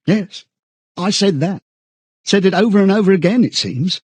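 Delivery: high, hurried confession; agitated admission. A narrator's reading. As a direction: own up in dismay at yourself. Parsons admits it, high agitated voice.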